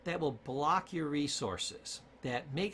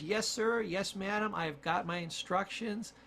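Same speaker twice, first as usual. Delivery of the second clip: obedient servant brain. Acted. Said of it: "Your brain says".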